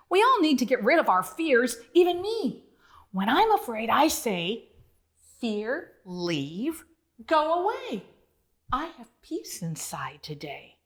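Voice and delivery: a gently comforting Duke. Acted. Duke comforting Bonzo, gentle and reassuring. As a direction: soothe a scared little friend. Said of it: "said with a comforting lick".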